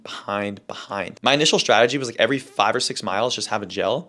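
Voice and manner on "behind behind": fading echo. Acted. Echoing fade of own words.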